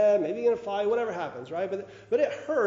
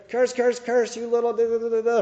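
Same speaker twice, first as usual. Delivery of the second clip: loud mock cursing, words blanked out; imitating a big brother's angry cursing; 4 semitones higher, 5 dB louder than usual. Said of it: "from my brother".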